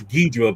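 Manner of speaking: "Ghidra" with the English GHEE-druh sound; English pronunciation. Shown as a demonstration. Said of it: "in the English version".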